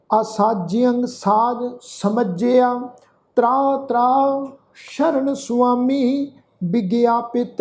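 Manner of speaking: slow, measured chanting of the slok; scripture recitation. Acted. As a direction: recite each phrase slowly and reverently. (ਹੌਲੀ ਸ਼ਲੋਕ ਪਾਠ)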